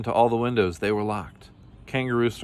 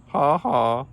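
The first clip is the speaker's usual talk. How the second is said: loud, high, spelt-out mock laugh; two gleeful, pitched-up beats; chortled; 6 semitones higher, 6 dB louder than usual. A narrator's reading. Kangaroo laughs after taking the ladder, mock chortle. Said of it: "chortled Kangaroo".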